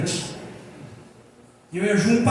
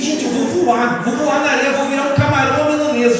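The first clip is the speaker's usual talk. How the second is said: retold panic, pitched up and louder; mock near-tearful alarm, voice raised; quase chorando; 4 semitones higher, 5 dB louder than usual. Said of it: "quase chorando". (quase chorando de medo, imitando o próprio desespero)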